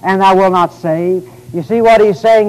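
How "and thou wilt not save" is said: slow, raised plea to heaven; impassioned, drawn-out prayer; crying out. Retold or imitated. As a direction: cry out to God, stretching the words. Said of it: "Even cry out unto thee".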